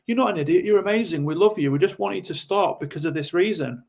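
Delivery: lightly voiced rescuer soothing the drinker. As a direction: coax them like an over-eager rescuer.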